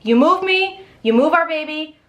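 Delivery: high-pitched, indignant mock meltdown; mock hysterical wife. Wife refusing to move, shrill hammed-up meltdown. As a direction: squeak it out like an outraged wife. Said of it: "Clemence had a f-, meltdown".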